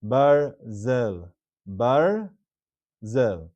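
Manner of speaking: "Barzel" split clearly as bar-zel; two syllables. Shown as a demonstration. Teacher giving word number two, two-syllable demonstration. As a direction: say "Barzel" with no vowel after the r. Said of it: "similar structure".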